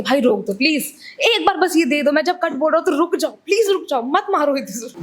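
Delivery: lightly acted exasperated pleading; imitating the pleading director. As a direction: beg two fighters to stop, as the director. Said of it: "हर बार अक्षत को आके".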